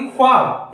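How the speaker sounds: ख्वाब with a rough throaty kh, khwaab; Urdu kh sound. Shown as a demonstration. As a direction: rasp the kh at the start of ख्वाब. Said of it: "इस तरह से बोलेंगे". (ख़्वाब, ख़ में झनकार के साथ)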